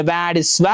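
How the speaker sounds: വ്ലാഡിസ്വ said slowly, syllable by syllable, with the L silent; careful pronunciation. Shown as a demonstration. Teacher showing students how to say the name, carefully. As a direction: spell out വ്ലാഡിസ്വ for the class, no L. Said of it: "pronounce ചെയ്യുന്നത് എങ്ങനെയാണ്".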